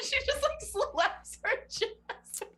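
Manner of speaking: excited. Real, not acted. Laughing at the character's gesture.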